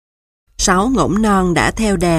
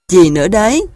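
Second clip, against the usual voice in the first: stern lead goose; 6 dB louder, faster than usual. A narrator's reading. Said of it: "Akka đáp lại và không thương xót".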